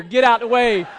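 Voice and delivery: playful crowd-clearing yell; mock shout. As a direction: shove through with your voice.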